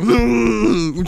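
mock-angry "mm" of a kid; mad grunt. Dad imitates his son before he attacks, mock-angry grunt. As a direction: imitate a small child's cross grunt. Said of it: "he gets mad".

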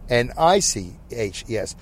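ordinary talk

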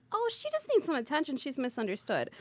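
high, sweet, soothing start; reassuring. Retold or imitated. Medium reassuring store owners about the doll, sweet high coo. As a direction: coo it like comforting a child. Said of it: "I'm like".

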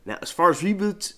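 big booming trailer voice; announcer voice. Pretend. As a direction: boom it like a movie trailer. Catchphrase opener, dramatic voice.

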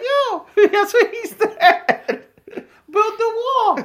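slow, high joke impression through laughter. Talking about Donald Trump, high laughing mock voice. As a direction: mimic a politician in a silly high voice. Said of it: "That's our voice for everyone".

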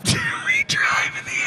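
squeaky, breathless laughing words; words collapse into high wheezy laughter; too tickled to get the words out; helpless laughter. Real, not acted. Teller breaks up laughing mid-story.

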